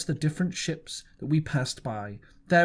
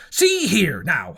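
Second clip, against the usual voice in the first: whisper; 7 dB louder, slower than usual. A narrator's reading. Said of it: "Silver confides in Jim".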